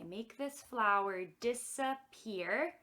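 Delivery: slow, deliberate incantation; magic phrase. Pretend. Magician making a flower disappear, slow magic phrase. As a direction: stretch out the last word, lifting it. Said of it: "say my magic phrase".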